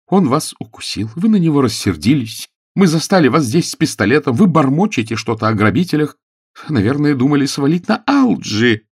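high, loud accusation; accusing. A narrator's reading. Hostess accuses Pickering of murder, high and loud. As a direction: press the accusation hard.

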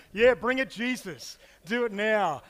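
loud, keen egging on; telling Jesus to strike now, loud and eager; eager shout. Retold or imitated. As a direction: cheer for the fire to fall, loudly. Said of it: "I go".

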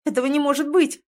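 loud, high shocked outcry; cry out. A narrator's reading. Heroine crying out at her changed body, shocked. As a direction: blurt it in disbelief. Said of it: "вскрикиваю".

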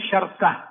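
شركة as sharka, no middle vowel; middle consonant silenced. Shown as a demonstration. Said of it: "أن تخفف بتسكين الوسط". (شركة بتسكين الراء: شَرْكة)

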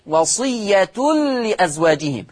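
وصية as wasiyyatul-li before لأزواجهم; damma with tanween. Shown as a demonstration. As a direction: recite وصية with "-tun" merging into the lam. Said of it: "يقرأ بضم التاء مع التنوين".

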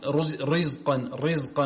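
slow رزقا with the ra made thick and broad; wrong heavy ra. Shown as a demonstration. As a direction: show the mistake, a heavy ra in رزقا. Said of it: "لا، خطأ".

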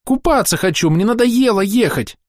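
put-on high, slow whining little girl; whiny child. A narrator's reading. Bored girl demands a walk and food, high whining. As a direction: drag out each demand like a brat.

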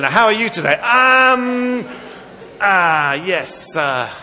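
loud, awkward, halting mock chat; stilted small talk. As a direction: act out a stiff, embarrassed greeting. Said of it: "such stilted conversation".

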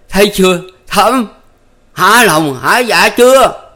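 high, loud, slow and biting; giọng gằn chua chát; bitter, grinding voice. A narrator's reading. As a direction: hurl the reproach at Thắm. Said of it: "nửa như gằn giọng".

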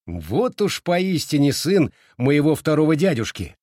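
high, emphatic exclamation; exclaiming. A narrator's reading. Boy praises his cousin's daring, exclaiming. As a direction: hail him with excited approval. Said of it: "воскликнул Симэнь Хуань".

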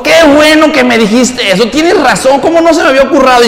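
slightly high ironic agreement; mock-sweet mother. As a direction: play the mother, dryly sarcastic. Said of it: "agarró un cuchillo y dijo". (madre irónica, un poco aguda)

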